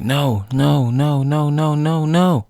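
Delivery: high, rising frantic protest; acted panic. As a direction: build mock panic with each word. Banner as zombies charge.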